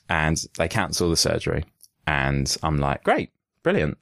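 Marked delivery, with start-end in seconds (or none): 3.0-4.0 sarcastic. Retold or imitated. Sarcastic retold reply.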